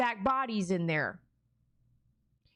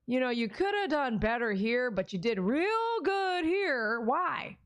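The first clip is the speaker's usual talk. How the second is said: imagined God speaking; 4 semitones higher, slower than usual. Retold or imitated. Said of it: "I hope he says".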